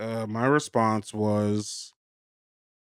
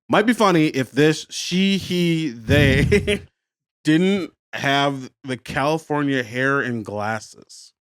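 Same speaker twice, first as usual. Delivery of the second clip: mock reading; slower than usual. Shown as a demonstration. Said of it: "I'll read it".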